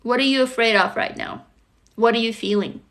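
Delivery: gentle, unhurried check-in with pauses between questions; tender, spaced-out questions to a little child; talking to inner child. Shown as a demonstration. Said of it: "So I would tell her".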